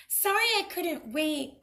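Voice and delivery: high, sweetly smug; smug pig. Acted. Pig teasing the wolf, high and smug. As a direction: fake apology.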